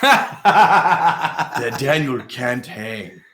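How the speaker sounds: laughing. Real, not acted. Teasing friend, laughing.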